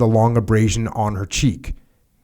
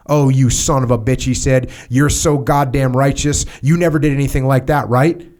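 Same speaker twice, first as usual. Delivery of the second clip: sneering boss; 2 semitones higher than usual. Acted. Major mocks the narrator.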